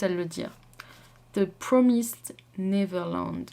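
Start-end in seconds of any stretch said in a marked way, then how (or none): 1.3-3.5 The Promised Neverland said slowly with a French accent; French-accented English. Shown as a demonstration. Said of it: "vu mon accent pourri en anglais".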